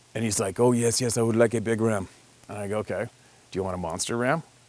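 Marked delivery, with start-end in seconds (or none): 0.6-2.1 rough, attempted put-on Mexican accent. Retelling what a Mexican guy answered, in an attempted Mexican accent. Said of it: "I can't mimic the Mexican accent perfectly, but I can try".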